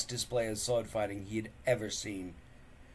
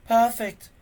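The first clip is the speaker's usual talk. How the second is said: croaked; 12 semitones higher, 11 dB louder than usual. Acted.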